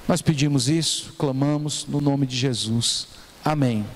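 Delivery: measured, reverent prayer with pauses between phrases; public prayer. Real, not acted. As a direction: pray aloud for the congregation, phrase by phrase.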